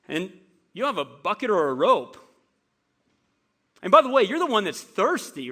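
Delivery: sarcastic woman. Retold or imitated. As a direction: throw his offer back at him mockingly. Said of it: "you can almost hear the sarcasm".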